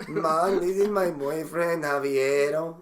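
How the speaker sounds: campy mock Hispanic accent; gay Hispanic voice. Son introducing Javiero to mom, campy Hispanic voice. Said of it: "like, a gay Hispanic voice".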